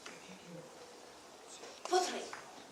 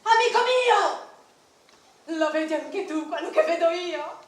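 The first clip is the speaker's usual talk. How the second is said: a hint of an excited Argonaut; 6 dB louder than usual. An Argonaut calling to his friend at sea, lightly excited. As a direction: point out a wonder at sea.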